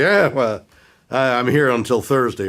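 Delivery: comic covering a failed joke. Retold or imitated. Comic in a club after the joke doesn't go over, lightly voiced shrug-off. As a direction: toss it off like a comic whose joke bombed. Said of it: "and they say".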